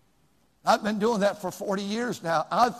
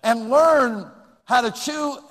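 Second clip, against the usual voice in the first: mocking slow drawl; 4 semitones higher, 6 dB louder, slower than usual. Shown as a demonstration. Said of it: "little children ought to learn".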